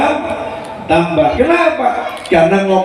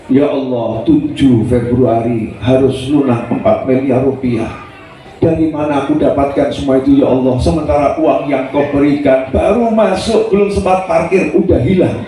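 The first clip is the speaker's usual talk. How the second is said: complaining prayer; 3 semitones lower than usual. Shown as a demonstration. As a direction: pray like someone weighed down by debt. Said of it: "yang nggak utama dulu".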